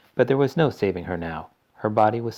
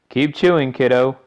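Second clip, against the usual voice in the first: boisterous father voice; 5 semitones higher, 9 dB louder than usual. A narrator's reading. Father cheering.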